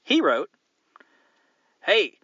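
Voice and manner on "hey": put-on Scottish accent. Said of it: "Scottish accent".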